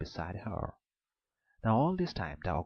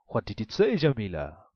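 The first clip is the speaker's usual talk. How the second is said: the ogre asks, roused from sleep; 8 dB louder than usual. A narrator's reading.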